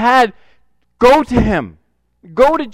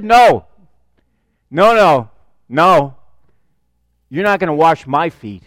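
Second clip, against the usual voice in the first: loud firm refusal No, then dropping lower; Peter refusing; 4 semitones lower, 3 dB louder than usual. Retold or imitated.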